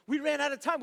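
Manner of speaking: emphatic. Shown as a demonstration. Telling the audience they missed the flight, loud and emphatic. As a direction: hammer the point home.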